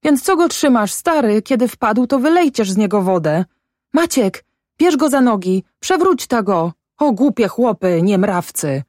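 high, urgent scolding; frantic ordering. A narrator's reading. Mother orders the men to help, frantic high voice. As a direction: order them about in a panic.

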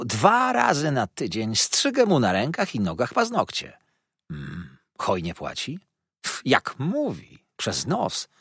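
lightly voiced, quick mocking gossip; a touch of scornful tattle; gossiping dwarf lady. Karlica plotkuje o księciu. (lekko kpiąco, plotkarsko)

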